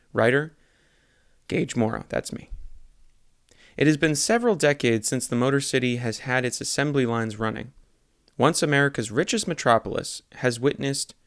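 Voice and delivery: deadpan newspaper read-aloud; earnest local news delivery; news article read. Acted. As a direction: read it straight like a news report. Reads satirical news article.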